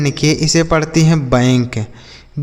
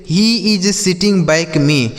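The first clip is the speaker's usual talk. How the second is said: slow dictation; much slower than usual. Shown as a demonstration. Teacher dictates example slowly.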